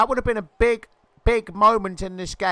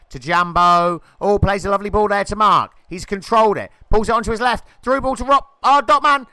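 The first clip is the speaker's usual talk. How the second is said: building excitement; 5 dB louder, faster than usual. Real, not acted. Commentator following a move on goal, growing excitement. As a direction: let the voice rise as the attack closes in.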